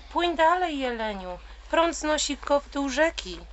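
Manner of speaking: high squeaky little bird cry; squeaked. Acted. Little bird squeaking to the swimming deer, high and excited. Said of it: "pisnął mały ptaszek".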